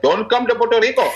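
high-pitched retold warning; mock-urgent phone warning; acted urgent warning. Acts out contact's urgent warning.

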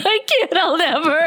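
high, squealed protest; hammed-up squeal of refusal; mock scream. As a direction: scream it in play, high-pitched. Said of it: "when we scream into the mics".

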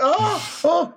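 high yelp of sudden chest pain; retold pained cry. Laughing at a game night, chest pops, sharp high yelp. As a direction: yelp out as something pops inside. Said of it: "I went".

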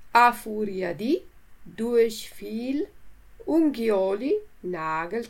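slow, measured word-list reading; vocabulary reading. Acted. Teacher reading a word list to learners, measured and clear. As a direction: read each word and its translation clearly.

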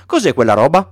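put-on a light, curious boy's voice; a child pointing at the plane; Little Prince asking what the thing is. Prince asks about the plane.

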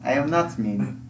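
slow protest. Acted.

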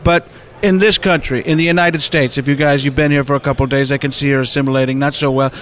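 lightly voiced Trump, chatty boasting; Donald Trump. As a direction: ramble like Trump praising people. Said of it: "I was literally gonna ask for Donald Trump".

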